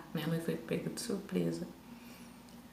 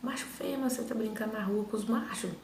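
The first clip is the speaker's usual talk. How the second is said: lightly imitated mother's telling-off; raised pitch, as a mum reproaching her child; scolding mother; 4 semitones higher than usual.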